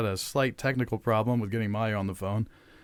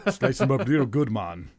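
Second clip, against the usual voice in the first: mock gangster, drawn out; lightly voiced movie tough guy with a put-on accent; Chris Tucker's Scarface; slower than usual. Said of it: "doing a Chris Tucker Scarface impression".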